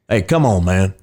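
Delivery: lightly drawled Texan; Texan accent. Shown as a demonstration. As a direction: say it like a laid-back Texan. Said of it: "let's just go with".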